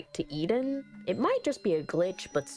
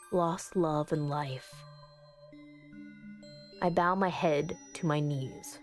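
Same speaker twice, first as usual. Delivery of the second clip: solemn incantation. Acted. Character praying to the angel in the ritual, solemn incantation.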